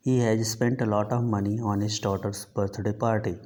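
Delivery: each word read out very slowly and evenly; slow dictation reading. Shown as a demonstration. Teacher reading an example to the class, slow and deliberate.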